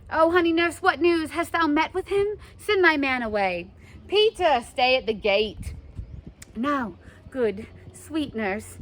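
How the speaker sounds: eager. Acted. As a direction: rush her with questions.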